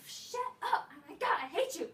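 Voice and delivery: high irritated outburst; fed-up mock snap; exasperated snap. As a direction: snap at the annoying boy. Snapping at singing boy.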